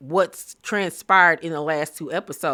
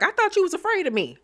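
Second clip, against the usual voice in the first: laughing jab; 12 semitones higher, faster than usual. Retold or imitated. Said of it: "And Spice was like".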